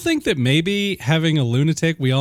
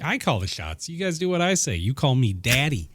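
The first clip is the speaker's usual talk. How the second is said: bossy mock boast; 4 dB quieter than usual. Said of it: "it's like".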